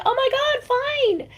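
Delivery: a playful retold "fine, you win"; exasperated giving in.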